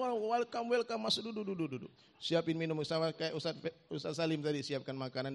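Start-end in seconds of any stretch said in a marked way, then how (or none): 0.0-1.9 eager welcome. Retold or imitated. Congregation welcomes them in.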